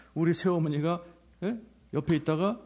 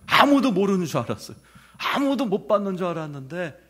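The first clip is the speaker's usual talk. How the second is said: laughing through emotion; 5 semitones higher, 7 dB louder than usual. Real, not acted.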